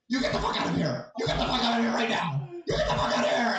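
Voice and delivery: high-pitched retold yell, building; mock loud yelling. Telling how he drove off his attacker, mock yelling. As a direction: act out ordering someone out, pitch climbing. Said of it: "that was loud".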